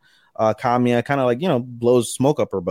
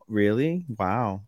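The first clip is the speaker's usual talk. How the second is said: sarcastic; 5 dB quieter, much slower than usual. Acted. Girl answering news of friend's dating, understated sarcasm. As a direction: let the wow drop, softer and unimpressed. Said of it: "like, sarcastic".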